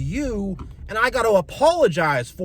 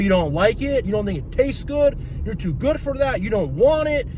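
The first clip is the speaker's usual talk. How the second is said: mock angry family; 6 semitones higher than usual.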